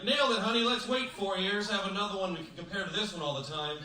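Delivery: high, loud, slowing mock parent voice; proud parents. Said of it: "my parents are like".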